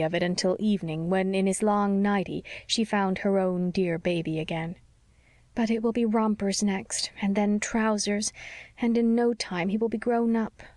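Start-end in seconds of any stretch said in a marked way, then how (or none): 5.5-10.6 sighing. Acted. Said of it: "she sighed".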